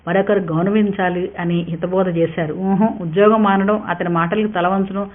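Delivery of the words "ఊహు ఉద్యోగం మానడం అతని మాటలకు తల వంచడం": flatly firm. Acted. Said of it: "తేల్చి చెప్పేసింది హరిత".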